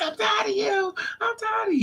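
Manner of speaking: hammed-up shrieky complaint; mock screaming. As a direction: imitate his hysterical screaming. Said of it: "He's screaming".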